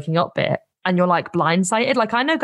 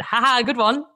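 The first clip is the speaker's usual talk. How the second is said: mock laugh; 5 semitones higher than usual. Retelling her joking reply.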